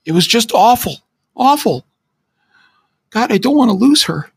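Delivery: high, tearful voice on the phone; frightened friend crying for help; in tears. Acted. Friend calling from Detroit, high and tearful. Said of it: "he said, now clearly in tears".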